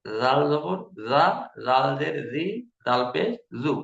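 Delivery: জাল জবর জা said soft and slow; soft zal. Shown as a demonstration. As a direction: let জাল জি জু glide softly and slowly. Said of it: "জালটা একটু নরম ভাবে হবে".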